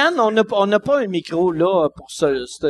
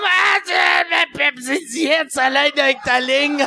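mocking voice; 5 semitones higher, slower than usual. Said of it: "Il était comme".

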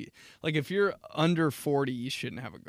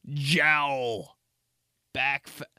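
calling out; 7 dB louder, much slower than usual. Acted. Calling out pig cuts.

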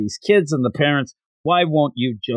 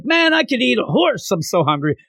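put-on little girl voice; 8 semitones higher than usual. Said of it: "And she's like".

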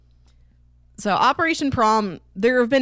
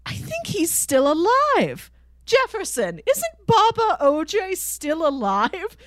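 quoting a character; 9 semitones higher, slower than usual. Retold or imitated. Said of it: "Orpheus is like".

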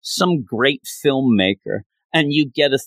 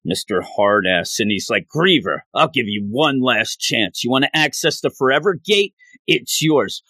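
tough-guy Reed; 2 semitones lower than usual. Retold or imitated. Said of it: "you have Reed like".

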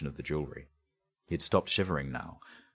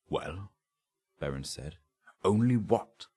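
raised pitch, pressing questions; sharp, higher questioning; impatient prompting; 5 semitones higher than usual. Acted. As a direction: push for the rest of the answer. Inspector presses suspect for answers.

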